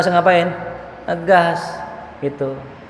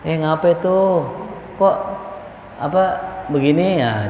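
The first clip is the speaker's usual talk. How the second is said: easy, unforced questioning; gentle admonishment; 3 dB quieter than usual. Acted. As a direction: correct the youngster softly, without scolding. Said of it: "Tegurnya pelan-pelan".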